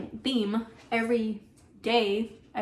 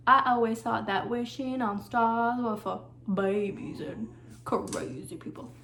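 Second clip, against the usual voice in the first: southern Tiana quote; slower than usual. Retold or imitated. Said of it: "they all have their southern accent".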